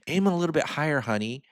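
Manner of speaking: a touch of put-on sarcastic sympathy; sarcastic TV woman. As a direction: imitate a sarcastic sitcom woman's advice. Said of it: "kinda like those sarcastic".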